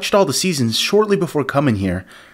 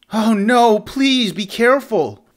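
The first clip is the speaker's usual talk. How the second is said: more alarmed; 5 semitones higher than usual. Shown as a demonstration. Higher, louder retake.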